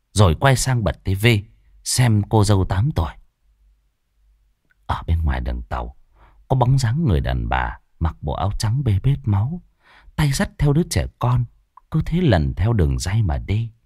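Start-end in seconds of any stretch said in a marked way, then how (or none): 4.9-13.7 hushed eerie narration. A narrator's reading. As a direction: draw the listener into the dark.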